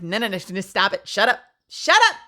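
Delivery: building to a high, loud shout; hammed-up irritated outburst; mock exasperation. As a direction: cut them off, escalating to a mock yell. Cutting off gushing peers.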